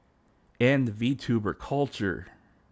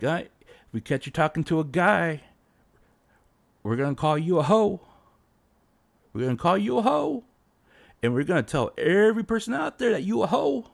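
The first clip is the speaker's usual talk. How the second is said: higher, louder jeering fanboy voice; mock fanboy threat; 7 semitones higher, 4 dB louder than usual. Fanboys threatening a VTuber girl, loud and high. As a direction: sneer it like an angry fanboy mob.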